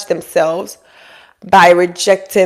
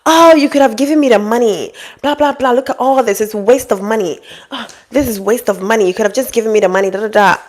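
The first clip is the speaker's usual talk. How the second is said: mock ungrateful complaint; 3 semitones higher than usual. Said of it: "and she was angry".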